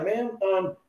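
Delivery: high, rising mock accusation; indignant accusing. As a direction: press her on whether she's laughing. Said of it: "I'm like".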